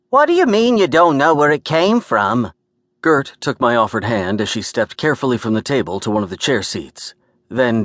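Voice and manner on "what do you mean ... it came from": high-pitched, indignant New York wife; sharp New York woman. Acted. Gert challenging Morty about the thing, indignant New York scolding.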